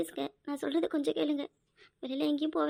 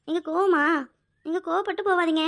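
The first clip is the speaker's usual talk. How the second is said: anxious plea; 5 dB louder than usual. Acted. Wife anxiously begging husband not to leave angry. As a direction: call after him, afraid he's upset.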